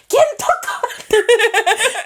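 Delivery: slow, high mock angry mom; drawn-out angry "Quién tocó"; mom's mad question. Mom demanding who took her sticky note, slow and mock angry. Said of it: "and she'd be like".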